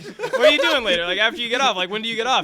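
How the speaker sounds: pushy laughing ask. Retold or imitated. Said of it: "And I'm like".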